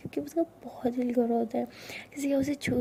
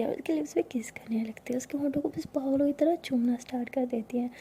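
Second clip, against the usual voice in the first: whispered narration. A narrator's reading. Narrator whispering a love story to listeners. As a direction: breathe the story close to the mic.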